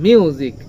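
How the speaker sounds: মিউজিক pressed on its opening m; stress on M. Shown as a demonstration. Teacher saying say it with me, stressed মিউজিক. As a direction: lean on the m of মিউজিক. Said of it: "এখানে ম এর উপরে stress রয়েছে".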